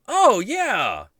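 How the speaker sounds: high, loud call across to a neighbour window; calling the guy over from the balcony, high and loud. Retold or imitated. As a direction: wave him over, shouting up high.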